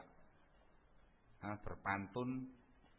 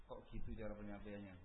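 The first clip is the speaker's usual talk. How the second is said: quiet complaint; 7 dB quieter, faster than usual. Retold or imitated. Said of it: "orang awam sudah mengatakan sudah nggak enak rasanya".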